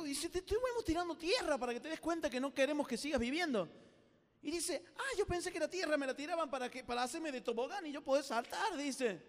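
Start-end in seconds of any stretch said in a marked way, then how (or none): 0.3-3.8 higher-pitched mock exasperation; protesta exasperada. Frogs protest to her. 5.0-8.8 high, naive realisation; sorpresa inocente. Acted. Deaf frog's naive answer.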